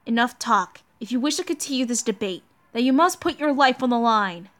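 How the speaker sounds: a hint of a solemn knight ending the debate; stern loyal knight. Voices Lancelot defending the king.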